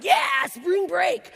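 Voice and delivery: slow, high, loud whoop; party cheer. Retold or imitated. Husband cheering at a Cancun trip, loud slow whoop. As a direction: whoop like a spring breaker.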